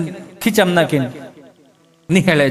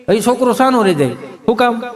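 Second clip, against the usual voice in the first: normal talking voice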